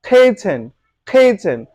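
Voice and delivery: "খেয়েছেন" as "khey-chen", aspirated k; correct pronunciation. Shown as a demonstration. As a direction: puff the k in "খেয়েছেন". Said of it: "যেমন একটি word হচ্ছে".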